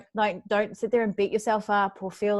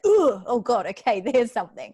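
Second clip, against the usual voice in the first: louder "Ooh, oh God" with a laugh; startled pang; 2 semitones higher, 6 dB louder than usual. Retold or imitated. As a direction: caught off guard by a gut pang. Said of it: "I'm like".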